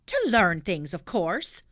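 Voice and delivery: lightly voiced policeman.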